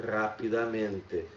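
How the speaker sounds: rapidamente drawn out, stress on men; slow model word. Shown as a demonstration. Teacher writes and slowly says rapidamente. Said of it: "E vejam que a minha pronúncia".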